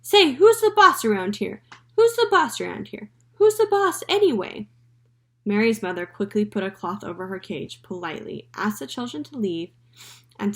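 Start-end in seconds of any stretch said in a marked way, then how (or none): 0.0-4.7 high, loud squawking parrot; parrot yelling. A narrator's reading. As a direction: shriek it like a cheeky parrot. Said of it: "Penelope yelled out".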